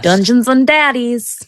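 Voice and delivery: punchy put-on American show title; imitated American intro. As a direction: mimic an American podcast host, drawn out. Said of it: "I'll mimic it in that way".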